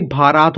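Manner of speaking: भारात with '-raat' drawn long; misread long vowel. Shown as a demonstration. Teacher imagining a pupil's first guess, long-vowel misreading. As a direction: lengthen the second syllable of भारात. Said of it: "एक बार गलत सही पढ़ा".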